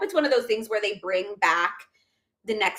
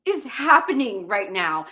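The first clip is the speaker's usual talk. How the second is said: mock disbelief; 4 dB louder, slower than usual. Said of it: "I was like".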